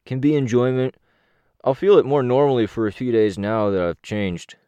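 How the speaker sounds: talking through chocolate; words round a mouthful of chocolate; mouth full. Acted. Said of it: "He talked with his mouth full".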